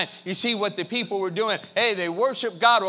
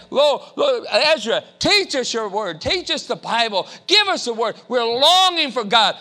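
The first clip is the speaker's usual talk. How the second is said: calling out; 5 semitones higher, 4 dB louder than usual. Acted. Crowd calling to Ezra.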